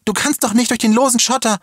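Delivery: very high, alarmed cry; calling out. A narrator's reading. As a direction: call after him in urgent warning. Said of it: "rief sie".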